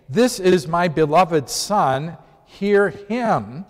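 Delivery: lightly voiced, slow proclamation of God; voice from heaven. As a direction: read it out slowly as a declaration from the cloud. Voice from the cloud, quoted.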